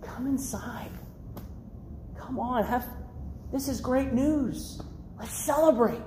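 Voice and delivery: soft, gentle pleading; hushed, imploring invitation; begging father. Acted. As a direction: coax a sulking son indoors, quietly. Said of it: "You know what he's begging him?".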